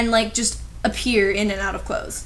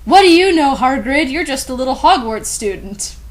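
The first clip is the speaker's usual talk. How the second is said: mild mock scorn; 3 semitones higher, 6 dB louder than usual. Mocking Hagrid in story.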